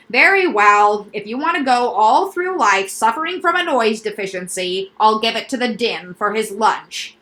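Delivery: loud, eager salesman doctor; quack doctor voice. Acted. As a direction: pitch the noises like a proud specialist. Doctor character voice.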